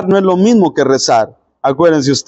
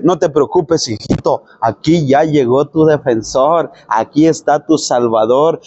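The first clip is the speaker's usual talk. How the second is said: God reassuring; 3 semitones lower than usual. Acted. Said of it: "Dios le dice".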